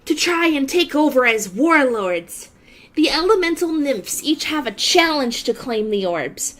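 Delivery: lightly voiced character narration; a hint of a dramatic heroine; Akira voice. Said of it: "I was just doing Akira's voice".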